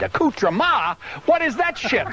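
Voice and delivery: rising, high incredulous question; puzzled. Real, not acted. Actor baffled by a word in his script, incredulous question.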